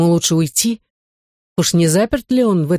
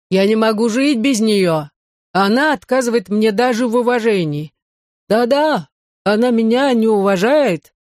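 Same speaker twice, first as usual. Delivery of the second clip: raised, aggrieved lament of a lovesick Frenchman; sad complaint; 5 semitones higher than usual. A narrator's reading. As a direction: heartsick nobleman complaining he is not respected. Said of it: "грустно добавил де Брильи".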